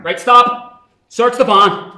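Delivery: officer snapping orders at his men; barked orders. Acted. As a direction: call the halt and give the order.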